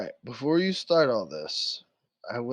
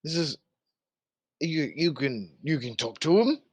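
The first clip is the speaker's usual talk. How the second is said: lightly voiced guard captain, disbelief giving way to orders; a hint of an incredulous commanding officer; sceptical guard captain. Game master plays guard captain.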